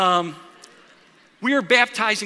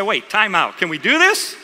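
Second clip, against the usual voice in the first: loud, raised-pitch time-out call; retold urgent interruption; 7 dB louder than usual. Preacher halts the baptism to check, acted out loud and urgent. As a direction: call a halt, loudly, as if retelling it.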